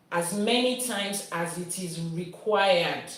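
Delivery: slow, weight on required; emphasis on required; stress on required. Shown as a demonstration. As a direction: lean into the word required. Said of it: "Emphasis on the word required".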